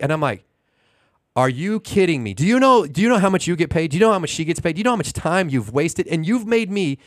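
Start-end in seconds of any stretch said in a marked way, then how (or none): 1.4-7.0 rising string of indignant questions; retold outrage. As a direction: fire off questions like re-living the argument. Retells outraged reply to manager.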